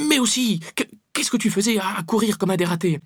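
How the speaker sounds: high, loud, stumbling reproach; indignant scolding. A narrator's reading. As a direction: scold him, catching on the words. Girl panting, scolding after the scuffle.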